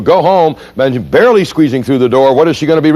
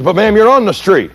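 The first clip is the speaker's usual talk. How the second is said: sarcastic; 9 semitones higher than usual. Retold or imitated. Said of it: "And he says".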